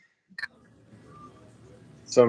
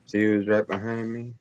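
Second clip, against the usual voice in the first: underwater sound; 5 dB quieter than usual. Real, not acted. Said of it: "You sound like you're underwater".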